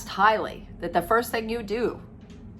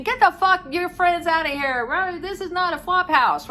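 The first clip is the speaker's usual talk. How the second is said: higher, mock angry yell; retold scream; 8 semitones higher than usual. Dad yelling at son's friends at 2 a.m., mock angry yell. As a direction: play the furious dad, half-acted. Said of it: "Dad is screaming".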